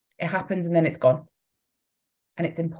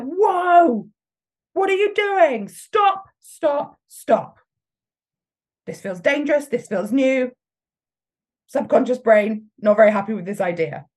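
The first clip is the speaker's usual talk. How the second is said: much higher, louder alarmed brain voice; panicked inner voice; 6 semitones higher, 5 dB louder than usual. Pretend. Coach voicing self-doubt thoughts in high alarm. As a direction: play the frantic subconscious yelling stop. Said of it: "they're like".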